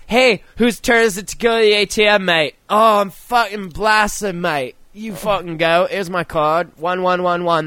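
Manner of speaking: put-on wasted Australian backpacker in a weak Aussie accent; bad Australian accent. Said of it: "Australian accent sounds much like my English accent".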